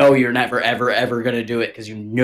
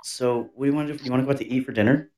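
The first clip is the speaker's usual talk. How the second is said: sweet soft offer; 6 dB quieter than usual. Retold or imitated. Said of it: "you gotta be like".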